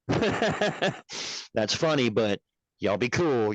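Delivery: a cop drawling it out, amused but warning; slowly stretched "That's funny", lightly voiced officer; slow drawn-out cop. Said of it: "they're like".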